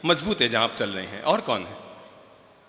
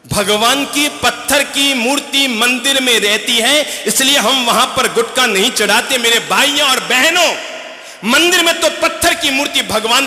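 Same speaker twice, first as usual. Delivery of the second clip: preaching; 8 semitones higher, 6 dB louder than usual. Acted. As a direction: rouse the crowd like a sermon. Monk preaches to crowd on gutkha.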